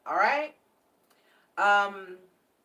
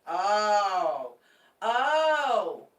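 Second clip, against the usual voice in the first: surprised oh; 2 semitones higher, 7 dB louder than usual. Real, not acted. Reader noticing the card was for Aquarius, surprised. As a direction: catch your own mistake. Realises she pulled wrong card.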